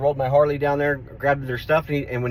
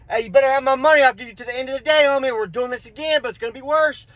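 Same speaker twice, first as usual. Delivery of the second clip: higher, raised warning; retold warning; 10 semitones higher than usual. Warning the roommate after slamming the door, heated. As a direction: lay down the deadline hard.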